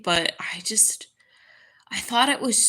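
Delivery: whispering, as if admitting something; whispered confession. Real, not acted. Confessing an uncomfortable thought about grief, whispered. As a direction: hush it like a guilty secret. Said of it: "whispered confession".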